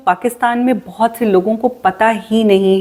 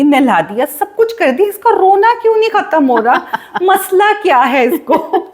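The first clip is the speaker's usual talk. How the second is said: giggling while telling of helpless new-mother nights; laughing; 4 semitones higher than usual. Real, not acted. Laughing recounting her crying baby.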